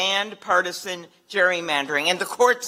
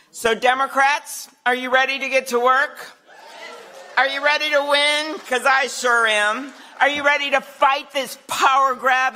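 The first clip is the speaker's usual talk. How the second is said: rally cheer; 3 semitones higher than usual. Real, not acted. Rally call to the crowd.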